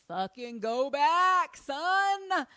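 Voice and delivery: a loud, high, urgent plea; urgent alarm. Acted. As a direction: push hard, like you must leave now. Lorraine urging Ed to return.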